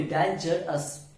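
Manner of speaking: डेंजरस slowly, in three beats; three syllables. Shown as a demonstration. Teacher asking students to count syllables, डेंजरस slowly split in three. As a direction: break डेंजरस into dan, ger, ous. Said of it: "तीन syllable है".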